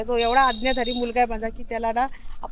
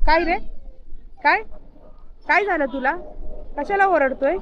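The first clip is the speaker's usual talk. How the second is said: raised voice scolding a pet; calling to the dog; 6 semitones higher than usual. Real, not acted. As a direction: ask the barking dog what's wrong. Asking barking dog what's wrong.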